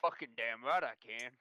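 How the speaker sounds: put-on slow drawling Southern accent. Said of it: "I just wanted to do the fucking accent".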